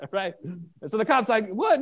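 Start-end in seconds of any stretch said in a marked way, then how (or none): 1.5-1.8 high-pitched, rising disbelief as the cop; retold shock. Cop hears that Dad let him leave, retold shock. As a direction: imitate a startled cop, pitch jumping up. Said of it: "the cop's kinda shocked".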